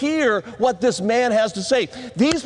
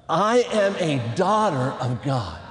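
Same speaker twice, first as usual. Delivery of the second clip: leading a recitation; 6 semitones lower than usual. Shown as a demonstration. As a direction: draw it out so others can join. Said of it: "One more time".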